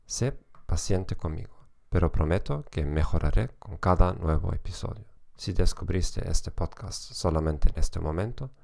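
Spanish with a German accent; German-accented Spanish, steady lecture pace. Real, not acted. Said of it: "con acento alemán".

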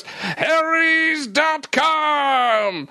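slow drawn-out shout. Acted. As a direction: call the name out slowly. Ad slogan call-out.

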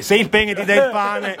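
said through laughter; laughing through the punchline. Real, not acted. Battuta ridendo tra amici.

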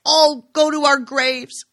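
high, loud tearful outcry; a mother near hysteria accusing her son. A narrator's reading. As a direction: close to breaking down, voice pitched high. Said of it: "She was in tears, close to hysteria".

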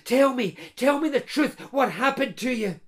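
lightly voiced eager man, amazed at her youth; Peter, astonished blacksmith. Blacksmith Peter marvelling to his lost bride Katrina, mild eager wonder.

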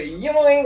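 imitated snapping twang. Describing a snapped ride chain to a friend, imitated twang. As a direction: mimic a chain snapping with a boing. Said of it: "that motherfucker said".

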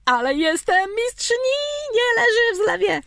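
wysoko i głośno, jak zwyciężczyni; ogłoś sukces z dumnym okrzykiem; triumfalnie. Acted. Żartobliwy triumf nad zmywarką. (triumfalny okrzyk)

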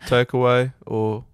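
slow, lifeless drive-thru worker; drive thru speaker. Retold or imitated. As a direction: drone it like a tired cashier. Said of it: "such an accurate depiction".

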